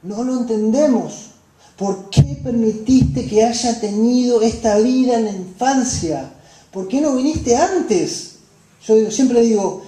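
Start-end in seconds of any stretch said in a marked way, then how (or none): 1.8-8.3 quarrelling with God. Acted. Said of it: "nos peleamos con Dios".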